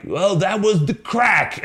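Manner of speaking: high, slow mock of a bad Irish accent. Mocking a Canadian actor's horrible Irish accent, high and slow. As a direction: ham up a fake stage Irish accent. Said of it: "a Canadian guy do a horrible Irish accent".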